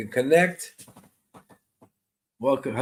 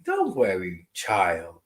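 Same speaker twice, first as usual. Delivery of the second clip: lyrical calming grandma; 3 semitones lower than usual. Retold or imitated. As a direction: croon reassurance like a grandmother. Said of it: "lyrical way of calming you".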